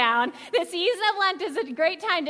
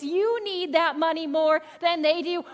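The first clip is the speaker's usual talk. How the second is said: coaxing devil voice; slower than usual. Retold or imitated. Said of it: "that voice that we hear that says".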